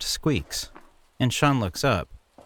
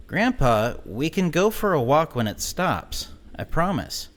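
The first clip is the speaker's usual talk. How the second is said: higher pleading voice; pleading grandson; 6 semitones higher than usual. A narrator's reading. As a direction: beg him to wait.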